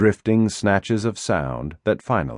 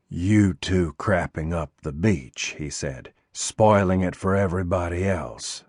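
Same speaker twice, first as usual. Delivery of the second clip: cold menace. Acted. Eddie answers coldly.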